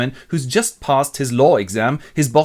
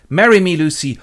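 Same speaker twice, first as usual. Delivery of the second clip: loud, raised-pitch proposal; ardent suitor; 5 semitones higher, 7 dB louder than usual. Acted. Acted proposal by Arthur.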